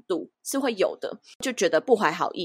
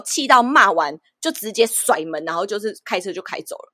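ordinary talk, nothing marked

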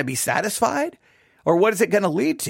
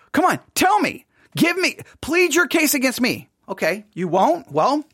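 raised-pitch, insistent questioning; challenging; 3 semitones higher than usual. Acted. God asking the people for their case, challenging. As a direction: press them to answer back. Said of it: "He's giving them an opportunity".

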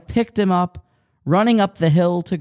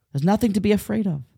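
calm reassurance; 4 semitones higher, faster than usual. Retold or imitated. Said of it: "And in her calm way".

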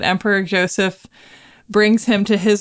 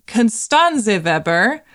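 German accent; 3 semitones higher, slower than usual. Real, not acted. Podcast host names Mozart's wife in a slow German accent. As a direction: say Constanze Weber slowly with a German accent, the a's open and the W like a V. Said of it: "I don't know why I said it with that much accent".

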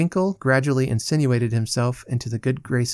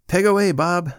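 higher, firm urging to a friend; encouraging; 6 semitones higher, 4 dB louder than usual. A narrator's reading. Allen urges his companion on at breakfast, encouraging. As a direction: egg your companion on. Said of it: "said Mister Allen to his companion encouragingly".

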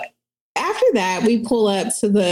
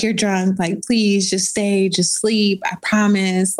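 lightly voiced begging; slower than usual. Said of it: "literally begging me".

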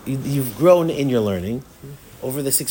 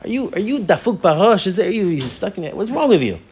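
raised, exasperated questioning; mock incredulous scolding; 4 semitones higher than usual. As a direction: act out berating a student in jest.

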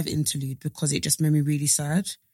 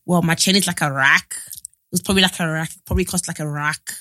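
attempted London accent slipping into Scottish; light, badly faked London accent; impression of a rapper. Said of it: "Actually, no, that sounds Scottish".

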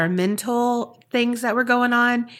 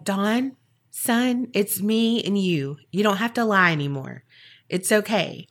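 softer, fatherly, coaxing; gentle reassurance; 4 dB quieter than usual. Retold or imitated. Reverend coaxing the inmate Don, softer fatherly reassurance. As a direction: ease him into telling the truth.

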